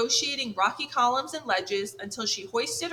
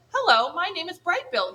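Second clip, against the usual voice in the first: high, loud gosling call over the surf; bright shouted greeting, louder and higher; shouting over waves; 8 semitones higher, 5 dB louder than usual. Acted. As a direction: call out across the water to the otters. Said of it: "he shouted over the waves".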